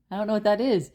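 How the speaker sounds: a hint of New York girlfriend; imitated city accent. Girlfriend baffled by cleaning supplies, light New York accent. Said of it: "And she talks like that too".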